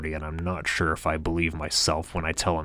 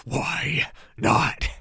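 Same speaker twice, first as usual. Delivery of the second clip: shout; 8 semitones higher than usual. A narrator's reading. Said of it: "I shout again over the music".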